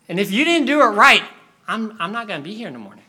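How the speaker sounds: put-on high, urgent kid voice; hammed-up boyish worry; panicked little boy. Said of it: "panicked the whole night".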